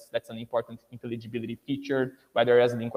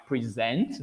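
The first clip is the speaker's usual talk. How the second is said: "present" stressed on the second syllable, pre-ZENT; verb stress. Shown as a demonstration. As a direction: hit the end of "present", as the verb. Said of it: "Word stress is what's going to change".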